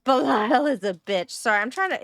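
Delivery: talking with a mouthful of crackers; eating while talking; chewing while talking. Real, not acted. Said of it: "eat peanut butter crackers".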